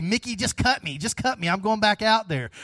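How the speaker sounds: acted fighter refusing to quit; Rocky. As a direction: urgently insist like a battered boxer. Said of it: "what does he say?".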